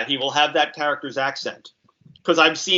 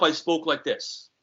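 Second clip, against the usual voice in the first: slower, a hint of a thick New York accent; 3 dB quieter, slower than usual. Shown as a demonstration. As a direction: let the old New York accent come back in. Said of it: "soften my New York accent".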